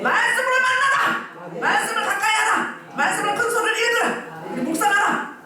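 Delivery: high, driving sermon delivery; fervent preaching. Acted. Pastor urges the congregation to meet God, in fervent high preaching. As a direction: preach it with urgent force.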